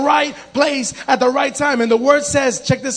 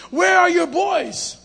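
slow, drawn-out questioning, higher; Jesus as retold; 5 semitones higher, slower than usual. Preacher showing how Jesus asked the healed man, slow mock questioning. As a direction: stretch it out like a preacher voicing Jesus. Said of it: "That's how Jesus spoke".

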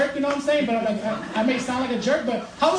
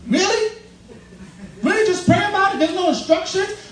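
incredulous; 4 semitones higher than usual. Real, not acted. Incredulous echo of advice.

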